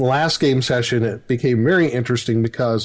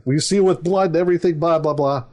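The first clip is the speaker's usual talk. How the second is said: father oath; 5 semitones higher than usual. Retold or imitated. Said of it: "It's like".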